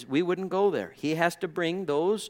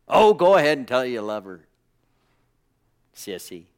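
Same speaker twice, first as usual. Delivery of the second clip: teasing a friend; 2 semitones lower, 7 dB louder than usual. Retold or imitated. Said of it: "you know how you tease your friend".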